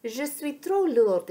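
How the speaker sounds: protest, pushing back on the offer; insistent. A narrator's reading. Sacha refusing to be carried, insisting. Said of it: "insiste Sacha".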